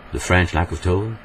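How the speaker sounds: English with a flat French accent, little stress; French-accented English, evenly stressed. Shown as a demonstration. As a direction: say it as a French speaker would, in even tone. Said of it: "En français, on dirait".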